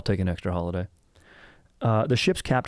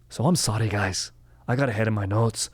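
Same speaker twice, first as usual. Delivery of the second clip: mock Scottish apology; Scottish accent. Host to listeners about his notes, mock Scottish accent. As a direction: apologize with an exaggerated Scottish lilt. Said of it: "say it in a Scottish accent".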